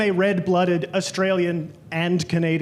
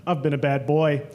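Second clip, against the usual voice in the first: flirty come-on; 5 semitones lower than usual. Retold or imitated. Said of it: "I turned to a guy and I said".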